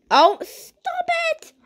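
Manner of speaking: high, loud, slow cry of alarm; panicked shout. Real, not acted. Caught by the disaster, a panicked shout. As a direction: yell at the game in panic.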